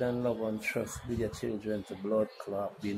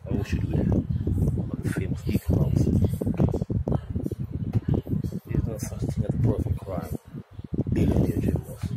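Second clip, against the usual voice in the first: loud furious outburst; angry shouting; 7 dB louder than usual. Real, not acted. Man ranting about racism to camera, shouting. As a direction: hurl it out, fed up.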